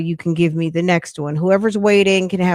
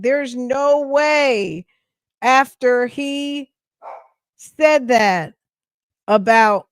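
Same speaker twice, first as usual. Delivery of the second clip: slow, raised retold disbelief; drawn-out disbelief; 4 semitones higher, much slower than usual. Host recalling her reaction to the scandal, disbelieving. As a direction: stretch it out, higher in pitch.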